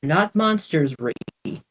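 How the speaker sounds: calm. Acted. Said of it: "said Sarah calmly".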